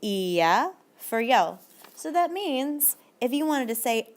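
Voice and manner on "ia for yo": slow model ending. Shown as a demonstration. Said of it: "they're gonna go".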